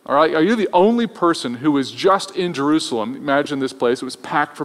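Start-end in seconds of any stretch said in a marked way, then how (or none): 0.4-3.2 mildly sarcastic retold question; a touch of mock disbelief. Disciples question the traveler on the road, mildly sarcastic. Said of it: "they were sarcastic".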